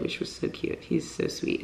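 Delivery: whispered fond aside; soft whisper. Real, not acted. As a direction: whisper it fondly, almost to yourself. Fond aside about Michael crying.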